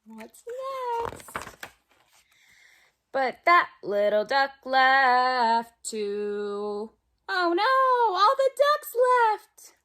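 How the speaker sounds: lively storybook read-aloud for little ones; reading to children. Acted. Teacher reading a picture book to kids at home, lively. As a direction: read it like circle time, bright and playful.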